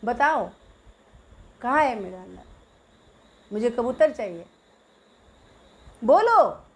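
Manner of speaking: little sister insisting, building to a loud demand; stubborn child demanding. Retold or imitated. Little girl to her teasing brother, stubbornly demanding. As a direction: dig in and demand it back. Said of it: "मैं अड़ गई".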